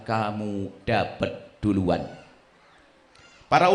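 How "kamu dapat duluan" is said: angel's reply. Acted. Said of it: "malaikat mengamini dan berkata".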